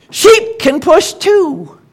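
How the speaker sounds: slow, high frog voice. Acted. Frog tells them the sheep can push, slow and high. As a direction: spell out the plan like a clever frog. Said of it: "croaks frog".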